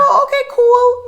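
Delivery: high mock-casual "oh okay cool"; mock calm. Mother retelling how she answered the nurse, mock casual. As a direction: play it cool in a squeaky high voice. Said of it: "keeping it calm".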